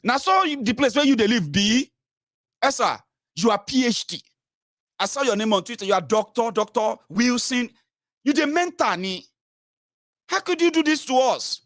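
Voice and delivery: hammed-up star-struck follower voice; mocking gullible follower. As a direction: gush at the doctor like an adoring fan. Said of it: "And you're like".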